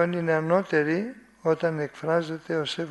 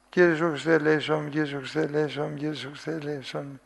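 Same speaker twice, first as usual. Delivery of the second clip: rushed prayer; faster than usual. Shown as a demonstration. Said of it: "Είναι οικετευτική αυτή η προσευχή".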